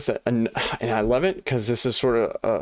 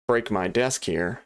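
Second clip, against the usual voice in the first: usual speaking voice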